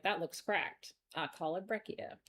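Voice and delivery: casual, lightly Southern-accented imitation. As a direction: quote the ancestors with a slight Southern twang. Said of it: "said it with a Southern accent".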